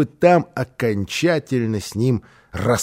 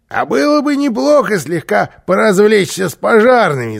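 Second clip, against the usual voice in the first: high, loud, playful character voice; lively troublemaker's suggestion; mischievous suggestion; 9 semitones higher, 7 dB louder than usual. A narrator's reading. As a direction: propose mischief eagerly, pitched up. Karlsson proposes mischief with firemen.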